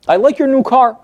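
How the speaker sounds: how the client hears the compliment, as a dig; loaded compliment. Retold or imitated. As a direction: lean on "your" so it sounds like a dig. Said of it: "that's not the way my client hears it".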